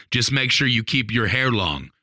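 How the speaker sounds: lightly voiced old Southern man's accent; a touch of clear country Southern accent; understandable Southern accent. Milton advises the teller's wife on hair, mild Southern accent. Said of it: "understandable accent".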